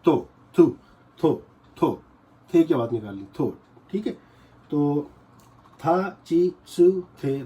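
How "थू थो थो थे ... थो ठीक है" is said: थो with a breathy t and round o, not थू; tho not tu. Shown as a demonstration. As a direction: say थो clearly. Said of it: "इसको आपने थो पढ़ना है".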